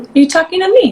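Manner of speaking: high, amazed question to the squirrel. Retold or imitated. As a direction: ask it high, wide-eyed with wonder. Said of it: "I was like".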